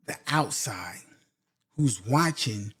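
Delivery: a sudden hushed whisper. Real, not acted. Men in a club, aware of who is watching, whispered. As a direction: drop into a secretive whisper.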